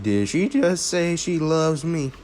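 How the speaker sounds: high-pitched, flustered retold question; mock-flustered, pitched well up; flustered disbelief. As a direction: imitate someone blushing in disbelief. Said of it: "turning a bit red over there".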